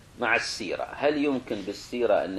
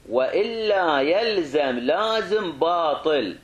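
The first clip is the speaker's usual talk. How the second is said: slow, raised dictating voice; dictation pace; 7 semitones higher, 4 dB louder, much slower than usual. Real, not acted. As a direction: stretch out each word for note-takers. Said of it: "تدري تكتبها على راحتك".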